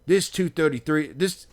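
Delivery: amateur imitation of an Australian insisting on his section; Australian accent. Aussie guy arguing over his seat, imitated in a rough Australian accent. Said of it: "he had a thick, uh, Australian accent".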